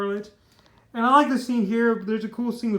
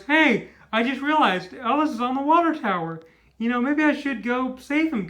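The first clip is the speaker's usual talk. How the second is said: raised, animated imitation of an idea striking; mock sudden realization; 4 semitones higher, 4 dB louder than usual. Phil remembers Ellis on the water tower, mock realization. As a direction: act out a would-be hero's realization.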